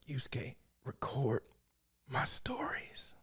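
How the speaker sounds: slow whispered last words; dying mentor whispering to her student. Retold or imitated. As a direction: breathe it out like a last request. Voicing dying Genkai.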